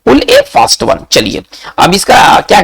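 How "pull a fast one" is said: teacher repeating the idiom for students to note, slow and high. Shown as a demonstration. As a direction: pull a fast one said very slowly and pitched up, word by word. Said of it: "आते एट में".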